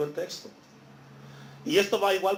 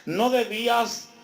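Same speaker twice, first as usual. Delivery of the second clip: stern master. Acted. Master rebukes wicked servant.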